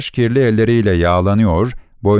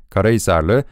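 usual speaking voice

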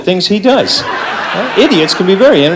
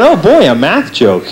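sarcastic thought; slower than usual. Retold or imitated. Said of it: "Some people are thinking".

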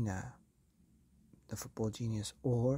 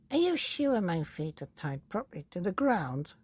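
put-on high, anxious old woman's voice; high worried Mrs Twit; Mrs Twit gasping; 6 semitones higher than usual. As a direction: fret breathlessly about the knots. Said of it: "she gasped".

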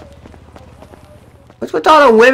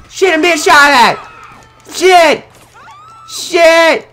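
panicked swearing; 4 semitones higher, slower than usual. Real, not acted. Being shot at.

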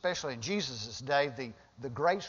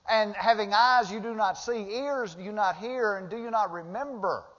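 higher, louder, searching questions; Jesus rebuking; 5 semitones higher, 4 dB louder than usual. Acted. Jesus questioning the forgetful disciples, loud and high. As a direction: press the disciples hard. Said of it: "he says".

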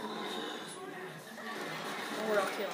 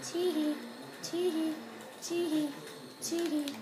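mock giggle; 8 semitones higher, 3 dB louder than usual. Stealing stuff, mock giggle.

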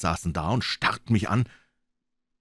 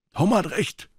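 pirate voice, much higher; rough pirate; 12 semitones higher, slower than usual. Acted. A pirate backs Morgan, raised higher. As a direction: side with Tom. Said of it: "sagte einer".

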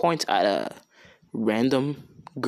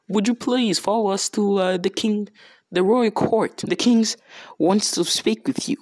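a little scared; 7 semitones higher than usual. Retold or imitated. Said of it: "scared a little, so they're like".

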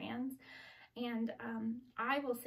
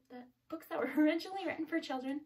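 quick, higher, louder, laughing through the correction; laughing at own slip; 5 semitones higher, 5 dB louder, faster than usual. Real, not acted. Librarian fumbling her book list, laughing through the correction. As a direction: laugh it off and rush the fix.

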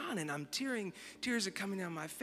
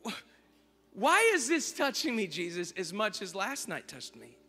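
anguished prayer; 5 semitones higher, 6 dB louder than usual. Retold or imitated. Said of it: "And I said".

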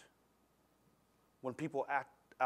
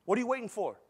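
retold challenge; 7 semitones higher, 6 dB louder than usual. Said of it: "I'm like".

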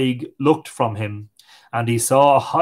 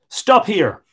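fairy voice; 7 semitones higher, 3 dB louder than usual. A narrator's reading. Little people call out to Tig.

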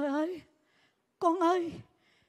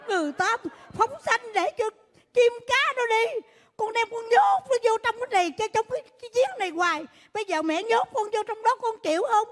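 loud lecture; 3 semitones higher, 4 dB louder than usual. Acted. Mother lectures loudly.

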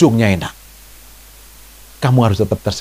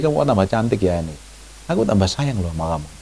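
softer, tender words of love; retold affectionate compliment; 5 semitones lower, 9 dB quieter than usual. Husband's daily compliment to his wife, softly affectionate. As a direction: lower the volume and compliment gently. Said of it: "saya bilang sama istri saya itu tiap hari".

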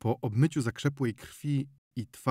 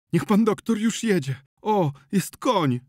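higher, louder, pressing urgency; urgent pleading; 10 semitones higher, 7 dB louder than usual. A narrator's reading. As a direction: hurry someone along in a raised, agitated voice. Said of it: "naglił Zenon".

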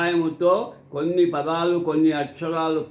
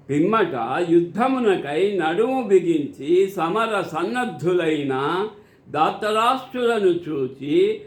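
measured declamation with drawn-out phrase endings; scripture recitation. Acted. Narrating Arjuna's request to Krishna for Dhritarashtra, formal recitation. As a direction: recite it formally, stretching the calls and final words. Reads out verse meaning.

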